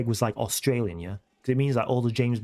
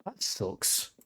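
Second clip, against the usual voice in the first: whispered; 4 semitones lower, 7 dB quieter than usual. Real, not acted. Disappointed under breath.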